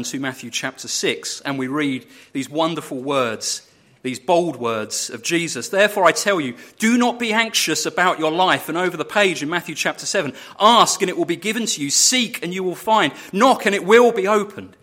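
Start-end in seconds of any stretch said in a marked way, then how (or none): 5.7-14.8 louder, raised preaching of the verses; proclaiming scripture. Acted. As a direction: proclaim it boldly to the congregation. Preacher proclaims Jesus' words.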